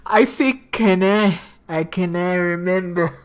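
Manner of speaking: shaky attempt at a Scottish accent. Player attempts the governor's lines, faltering Scottish accent. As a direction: try a Scottish burr, close to laughing. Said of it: "Oh no, he's Scottish".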